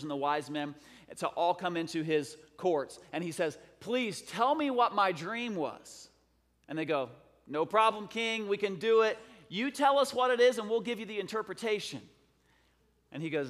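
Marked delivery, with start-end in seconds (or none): 3.8-6.1 lightly acted king, higher and drawn out; king's plea. King makes demand of counselors. 7.5-12.0 higher, louder, confident mock reply; eager counselors. Counselors eagerly answer the king.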